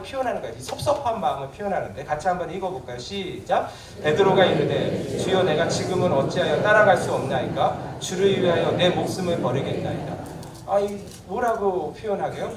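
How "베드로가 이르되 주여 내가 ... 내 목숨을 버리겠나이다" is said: scripture reading. Acted. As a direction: read the verse out together, measured and loud. Congregation reads scripture aloud.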